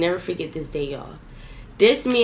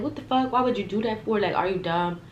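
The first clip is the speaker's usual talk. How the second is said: retold mad reaction. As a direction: replay being mad without raising your volume. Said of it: "I got mad".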